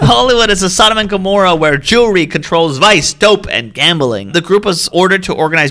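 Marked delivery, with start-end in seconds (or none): 0.1-4.3 higher, laughing mock dictator rant; hammed-up great dictator impression; ranting dictator speech. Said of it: "an old-timey German voice".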